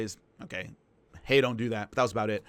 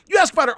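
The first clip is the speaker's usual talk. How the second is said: high, loud emphasis on YOU; emphatic point; 12 semitones higher, 8 dB louder, much faster than usual. Real, not acted. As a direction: drive home You. Stressing the correct question.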